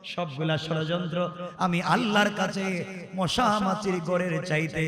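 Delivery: slow chanted sermon delivery; melodic preaching. Acted. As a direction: draw out the line endings in a preacher's singsong.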